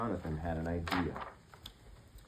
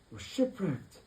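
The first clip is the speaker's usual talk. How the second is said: moan; 8 semitones higher, slower than usual. Acted. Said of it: "moaned the elephant".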